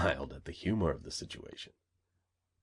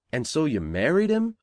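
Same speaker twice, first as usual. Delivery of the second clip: insistent; 8 semitones higher, 7 dB louder than usual. A narrator's reading. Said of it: "Johnny insisted".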